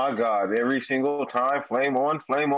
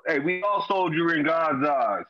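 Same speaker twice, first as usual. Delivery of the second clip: preacher voice; slower than usual. Pretend. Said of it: "Come on, Reverend".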